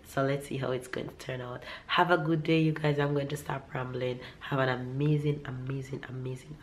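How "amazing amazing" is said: whispered. Real, not acted. Repeating sign-off, dropping to whisper.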